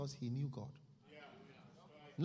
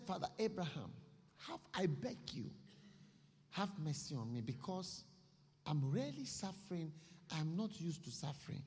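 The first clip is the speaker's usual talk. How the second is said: begging. Acted. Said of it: "he started to beg".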